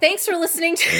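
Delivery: high, loud laughing talk. Real, not acted. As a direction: read the outro while laughing. Laughing through outro.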